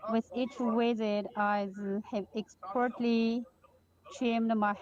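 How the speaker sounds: projecting clearly over the noise; speaking up. Real, not acted. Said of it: "maybe you can just increase your voice a little bit".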